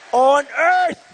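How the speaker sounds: On earth! shouted for emphasis. Real, not acted. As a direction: punch On earth! hard and loud. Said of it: "repeated, building".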